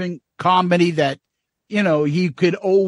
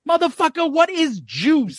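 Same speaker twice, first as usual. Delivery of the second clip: much higher, stretched mock outrage; incredulous skit voice; 10 semitones higher than usual. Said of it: "That's another skit".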